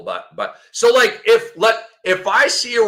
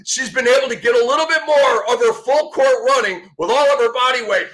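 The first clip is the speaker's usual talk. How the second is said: mock dramatic reading; 4 semitones higher than usual. Reads coach's quote mockingly.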